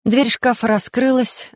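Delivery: ordinary delivery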